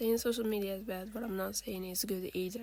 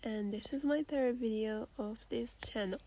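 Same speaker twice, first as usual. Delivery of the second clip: hoarse from a cold; talking through a sick throat. Real, not acted. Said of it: "excuse my voice because I'm a little bit sick".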